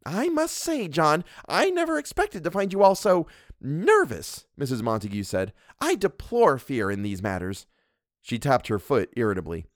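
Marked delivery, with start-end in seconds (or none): 0.1-7.7 higher, bossy wife's voice; a domineering wife scolding her husband; Mrs Montague. Acted. Mrs Montague lectures the doctor, haughty and bossy.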